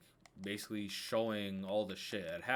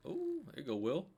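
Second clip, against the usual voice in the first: excited; 8 semitones higher than usual. Real, not acted. Excited reaction to play.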